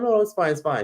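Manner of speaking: high, nervous polite refusal; brushing her off. Retold or imitated. Retelling her own uneasy refusal to the vendor, high and polite. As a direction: squeak out a polite no. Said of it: "I'm like".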